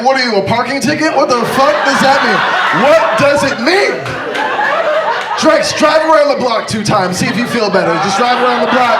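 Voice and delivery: hammed-up scolding mother; mock angry mom. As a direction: bark it like a fed-up mother.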